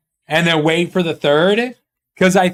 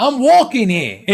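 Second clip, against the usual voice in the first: higher-pitched mock street accent; put-on accent; 5 semitones higher than usual. Joking with chat in a hammed-up accent. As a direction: play up a put-on city accent, laughing. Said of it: "I can't switch those accents".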